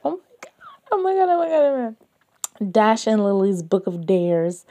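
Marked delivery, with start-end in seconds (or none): 0.0-2.7 high rapid squealing oh my gods; excited squeal. Real, not acted. Fan finding her favourite book online, squealing with excitement. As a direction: squeal it fast, bursting with fan joy.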